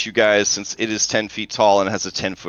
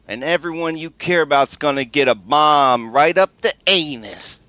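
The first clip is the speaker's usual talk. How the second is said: threat called out, easing off from a full shout; 3 semitones higher than usual. Acted. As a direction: keep calling the threat out, slightly raised. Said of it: "she just shouts from the".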